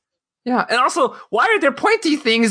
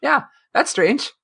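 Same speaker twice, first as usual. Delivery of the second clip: lightly mocking a baffled crew member, higher; mock puzzled crew; 8 semitones higher, slower than usual. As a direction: play the crew shrugging off a mystery, higher. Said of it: "Discovery's very good about".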